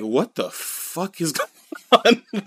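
slow, high, incredulous and cracking up; drawn-out mock bewilderment, giggling; laughing disbelief. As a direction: voice baffled onlookers while breaking into laughter. Appalled onlookers voiced, teller laughing.

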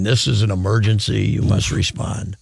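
low, measured mock-official warning; very stern. Retelling a scam call from a woman, mock stern. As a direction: imitate a stern automated scam call, slowing down. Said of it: "very stern and saying".

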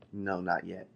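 soft, calm master saying not yet; a hushed, unbending master; quiet firm refusal. Acted. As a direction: hold the line gently but firmly. The master answers the suffering cup.

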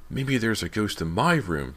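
thrilled at the idea of a ghost; little brother excitedly hoping for a ghost; excited exclaim. A narrator's reading. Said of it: "James exclaimed excitedly".

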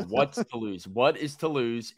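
"what's" with no n, then opened out into "What is"; clarifying correction. Real, not acted. Host correcting his co-host's mishearing, clarifying correction. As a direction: separate "What is" so it cannot pass for wants. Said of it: "I think you said".

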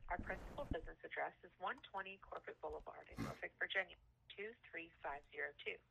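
phone menu voice. Acted.

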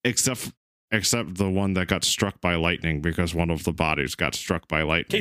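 put-on slurred, tipsy drunk voice. Shown as a demonstration. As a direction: play it like you're drunk. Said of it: "Drunk voice".

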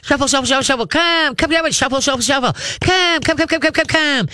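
high, bright coaxing call to a dog; excited dog call. Shown as a demonstration. Trainer calling a dog on a long line, high excited coaxing. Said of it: "shuttle backwards".

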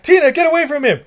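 high, loud screechy warning; mock angry mom yell. Recapping the movie, the mother yells at Tina. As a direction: shriek it like a protective mother. Retelling Blackula movie scene.

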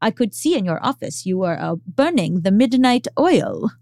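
a hint of an Austrian accent; lightly put-on Austrian accent, teasing. Quoting the Austrian neighbour to her cohost, a hint of Austrian accent. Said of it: "in her Austrian accent".

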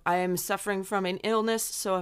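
stuffy nose from being sick; nasal, a bit flat from a cold. Real, not acted. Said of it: "if I sound nasally or a little flatter".

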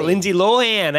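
mock upstate accent, "Lohan" as lo-HAN. Host teasing co-host's gross upstate accent, mock upstate vowels. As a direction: tease with an upstate flat a. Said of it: "the gross upstate accent".

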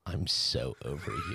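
drawn-out dismissive line, hammed up; mock diva. Voicing Zanzibar in skit.

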